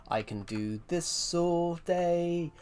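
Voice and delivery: slow line climbing high; changing voice. Shown as a demonstration. Streamer boasting of doing voices all day, changing voice. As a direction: drag the words out and step up in pitch. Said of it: "change my voice at will".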